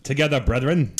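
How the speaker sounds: hammed-up posh English accent, pitched high; mock English accent. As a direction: bark the toast like a pompous English officer. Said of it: "do it in our best English accent".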